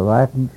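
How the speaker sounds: "latent" with a short a, as in "lat"; mispronounced latent. Retold or imitated. Recalling his slip to the audience, mispronounced "latent". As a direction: say "latent" wrongly, rhyming with "patent". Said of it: "mispronounced the word".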